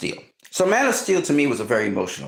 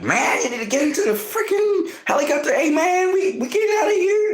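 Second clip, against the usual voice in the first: crew yelling to Superman. Retold or imitated. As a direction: call him to the helicopter over the noise. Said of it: "they're like".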